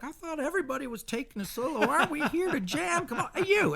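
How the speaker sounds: bossy diva. Retold or imitated. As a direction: play a singer taking charge of the band. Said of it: "She's like".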